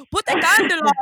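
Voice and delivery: put-on clumsy high, loud French accent; hammed-up French accent, mock; bad French accent. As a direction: try a French accent and miss it. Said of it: "I don't know how to do a French accent".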